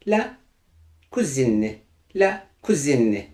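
"cousine" ending in a clearly sounded "-zin"; feminine pronunciation. Shown as a demonstration. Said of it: "şeklinde okunur". ("cousine" sonundaki n sesi belirgin, "kuzin" gibi)

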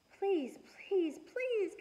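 put-on high, begging little girl; high-pitched pleading child. A narrator's reading. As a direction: beg like an eager kid. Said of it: "Cassie said".

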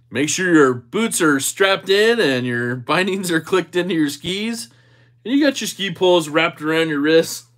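cheery ski instructor addressing the group; upbeat instructor briefing beginners on the slope. Pretend. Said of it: "I have the voice of a ski instructor".

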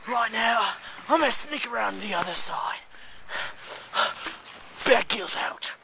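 hushed then urgent nature host; mock survival show host. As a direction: play a hammy survival expert. Parody nature documentary host.

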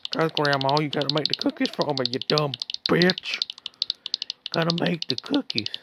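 a lightly put-on bratty voice bossing grandma; mock-bossy voice ordering grandma to bake. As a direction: scold the game grandma in a silly put-on voice. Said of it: "I don't know why I'm doing that voice".

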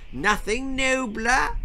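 high, croaky cough of a word; coughing old king. A narrator's reading. Frail king insisting, coughing. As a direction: cough the name out. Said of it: "coughed the king".

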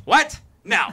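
high disbelieving what; shocked onlookers. Retold or imitated. Strangers shocked at the mismatched couple. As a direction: recoil in disbelief. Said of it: "everybody just goes".

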